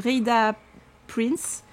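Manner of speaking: slow, tentative English accent on the name; attempted English accent. Shown as a demonstration. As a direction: try an English accent on "Rhaida Prince". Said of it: "Je voulais faire mon accent anglais".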